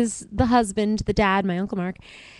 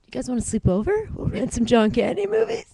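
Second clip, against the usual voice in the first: put-on Stittsville accent. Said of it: "The Stittsville accent".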